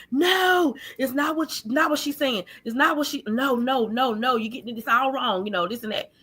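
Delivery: hurried-sounding string of retold protests; retold protesting denial. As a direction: pitch it up, mock pleading excuses. Voices man frantically denying to mother.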